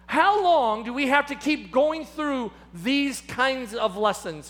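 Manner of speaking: weary, pleading exasperation; a preacher voicing mild exasperation; holy exasperation. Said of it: "an expression of holy exasperation".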